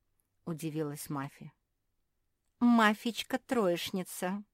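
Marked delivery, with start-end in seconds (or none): 2.6-4.4 slow, higher, mocking tease; sarcastic. Marsia teasing Mafi, slow sarcastic jab. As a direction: needle her with a sneer. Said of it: "язвительно заметила Марсия".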